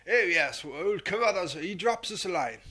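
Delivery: a hint of a plummy colonel; lightly hammed-up toff; daft Carruthers voice. Host slips back into the imagined Carruthers voice, lightly posh. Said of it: "it's what I assume Carruthers sounds like".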